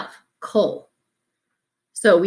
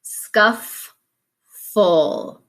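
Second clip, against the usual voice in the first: syllables split. Shown as a demonstration. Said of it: "split my syllables".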